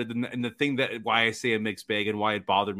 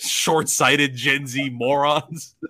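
mock scolding; 3 semitones higher, 3 dB louder, much slower than usual.

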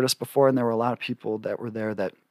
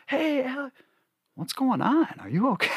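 high, bright imitation of happy friends; much higher, chirpy impression of oblivious friends; chipper mock greeting; 13 semitones higher, 3 dB quieter than usual. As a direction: mimic cheerful friends greeting him. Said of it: "Like, just like that".

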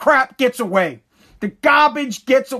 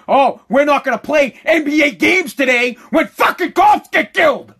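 imagined protest shout; 3 semitones higher, 4 dB louder than usual. Pretend. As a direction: yell it as a mock announcement. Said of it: "step up and say".

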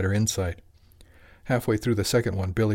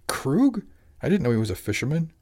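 surprised; 6 semitones higher than usual. Acted. Shocked at the shaman's name.

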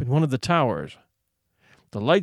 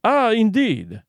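slow, concerned, a touch higher; solicitous; 6 semitones higher, slower than usual. A narrator's reading. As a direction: feign gentle concern for the guest. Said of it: "the general inquired solicitously".

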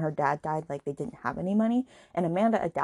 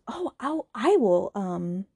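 high, eager mock mom voice; lightly voiced gushing mother; 4 semitones higher, 3 dB louder than usual. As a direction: gush like an overeager friend. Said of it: "his mom goes".

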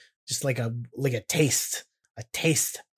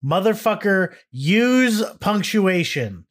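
mock angry; 6 semitones higher, 3 dB louder, slower than usual. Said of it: "me when I'm mad at someone".

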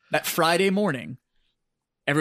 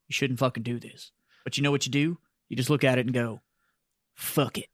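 First Sergeant Strong; 4 semitones lower, 4 dB quieter than usual. Retold or imitated. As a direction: lightly imitate a sergeant's deep Southern accent. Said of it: "the biggest Southern draw".

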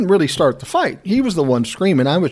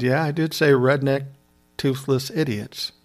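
smart-ass admission; 4 dB quieter than usual. Retold or imitated. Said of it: "I'm a smart ass at heart".

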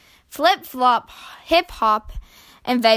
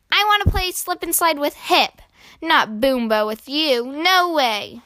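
put-on higher childlike protest, easing down; lightly acted sibling rejection; big-brother refusal; 4 semitones higher than usual. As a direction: brush off a pesky little brother. Older brother rejects little brother.

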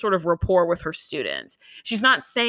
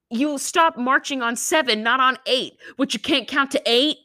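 higher, punchy imitation of a scolding coach; mock scolding; 5 semitones higher than usual. Coach snapping at a student who lost count, mock scolding. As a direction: call the kid out, higher-pitched.

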